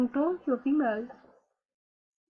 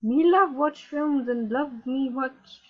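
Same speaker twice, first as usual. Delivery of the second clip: mocking broken English; slower than usual. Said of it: "Let's read her status update".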